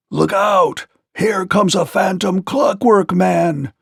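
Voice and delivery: the fleeing king warns his gnomes; terrified scream. Acted. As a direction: raise the alarm in a fright. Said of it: "screamed the terrified monarch".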